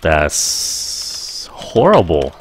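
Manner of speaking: slow, low, sympathetic sigh of a phrase. Shown as a demonstration. Teacher models reacting to bad news, slow and sad. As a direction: let it sink with sympathy. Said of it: "Hay là".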